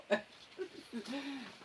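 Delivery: a high, breathy burst of laughter; a bright giggle that trails off; real laugh. Real, not acted. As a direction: laugh at yourself, caught up in the fun. Laughs at her own freak-out.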